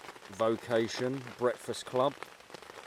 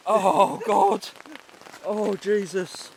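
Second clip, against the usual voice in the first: drenched and cold; 9 semitones higher, 7 dB louder, much slower than usual. Real, not acted. Drenched, groaning.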